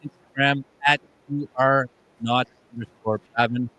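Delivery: choppy broken-up connection; glitchy robotic call. Real, not acted. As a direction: audio cutting in and out. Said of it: "Dave, why are you so choppy?".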